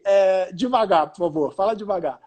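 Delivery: slow, careful plea to slow down; asking to slow down. Retold or imitated. A tourist asks the Uber driver to slow down, slowly. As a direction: draw out "devagar" patiently. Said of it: "Aí eu falei".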